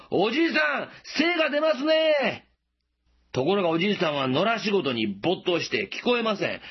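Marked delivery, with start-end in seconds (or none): 0.1-2.5 high, friendly call across a field. Retold or imitated. Passerby calling from the road to an old farmer, high and friendly call. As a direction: call out cheerfully to a distant farmer. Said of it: "声をかけたんですね".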